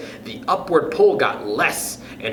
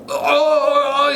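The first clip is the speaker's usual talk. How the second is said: shocked yelp; 11 semitones higher, 3 dB louder than usual. A narrator's reading. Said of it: "he said".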